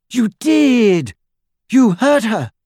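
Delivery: high, loud accusation; girl confronting her friend; accusing. A narrator's reading. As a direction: hurl the blame at him.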